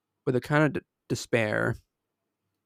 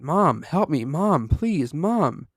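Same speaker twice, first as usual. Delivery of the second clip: desperate scream, pitch climbing higher on each Mom; 5 semitones higher, 4 dB louder, much slower than usual. Acted. Grabbed on the porch, screaming to mom for help. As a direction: cry out for help as you're dragged away. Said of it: "I screamed as loud as I could".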